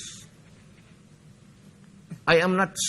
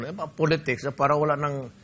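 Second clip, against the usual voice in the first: ordinary talk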